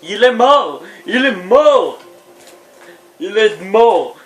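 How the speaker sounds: exaspéré. Real, not acted. Exaspéré, plus fort, plus aigu.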